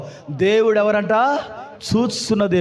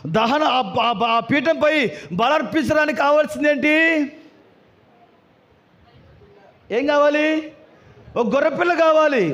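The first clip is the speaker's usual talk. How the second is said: raised preaching voice, questions thrown to the congregation; 7 semitones higher than usual. Real, not acted. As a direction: preach it out, stretching each question's end. (ప్రసంగ స్వరంలో బిగ్గరగా బోధిస్తూ)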